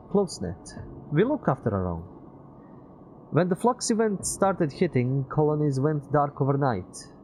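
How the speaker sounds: put-on high, loud wistful young man; Peter's voice. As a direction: voice Peter, a little sad.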